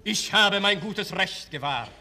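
cold, curt count; ice-cold and dismissive. Acted. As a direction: brush her off coldly. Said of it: "eiskalt und abweisend".

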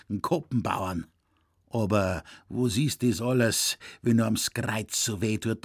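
put-on a grumbling old poacher lamenting his back; old Zecherl grumbling to young Franz; old Bavarian hunter. Zecherl complains.

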